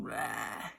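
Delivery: low, soft mock roar; angry growl. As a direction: give a small, low "rah" growl. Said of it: "he's so angry".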